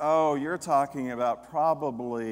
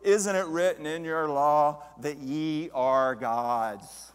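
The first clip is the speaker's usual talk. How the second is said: solemn scripture quote; 3 dB louder, slower than usual. Retold or imitated. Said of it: "when Jesus said unto them".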